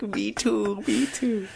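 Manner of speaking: high, gushy agreement; sob-squeal along with them; mock crying along. Host admits she cried too, high mock tearful voice.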